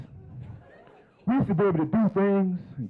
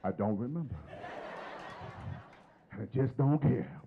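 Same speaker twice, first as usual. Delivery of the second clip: sheepish laugh; 4 semitones lower, 8 dB quieter than usual. Retold or imitated. Sheepish reply to Keith.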